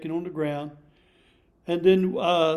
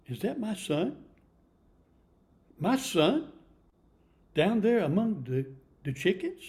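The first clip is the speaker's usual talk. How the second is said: father eagle's growing amazement; 3 semitones higher than usual. Acted. Father eagle spots his son.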